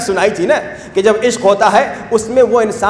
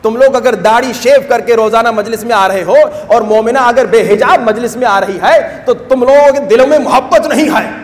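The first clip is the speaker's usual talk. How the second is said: retold fiery rebuke. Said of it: "میں نے بڑا جلال میں آ کے کہا".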